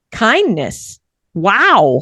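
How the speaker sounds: very animated, high, loud, swooping, acted-out delivery. Acting out how a woman reacted when let through, imitating an animated delivery. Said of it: "it was literally how she said it like that. It was so animated".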